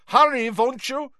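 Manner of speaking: high, pleading; anxious foreign boy. Acted. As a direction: urge him on nervously.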